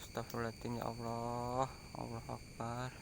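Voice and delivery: hushed, breathy muttered prayer; whispered prayer. Real, not acted. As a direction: murmur it under your breath, scared. Frightened prayer in dark haunted spot.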